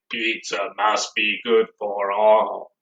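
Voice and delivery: munch it like Cookie Monster. Shown as a demonstration. Teacher repeats the Cookie Monster line for the class, low. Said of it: "like the Cookie Monster does".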